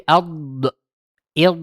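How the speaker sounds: ad, id said as a wrong demo; wrong Arabic vowels. Shown as a demonstration. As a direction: show the wrong ad id. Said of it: "itu gak boleh". (contoh bacaan salah ad id)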